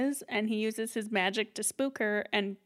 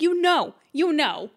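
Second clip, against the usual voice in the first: laughing, louder and higher; laughing mock drawl; 6 semitones higher, 7 dB louder, slower than usual. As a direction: drag it out with a laugh. Mock grandma dragging it out.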